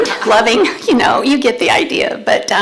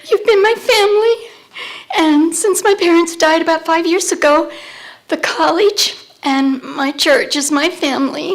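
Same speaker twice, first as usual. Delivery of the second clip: higher, choked-up thanks; holding back tears while thanking everyone; emotional; 3 semitones higher than usual. Real, not acted. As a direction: voice catching with real emotion. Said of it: "I'm emotional".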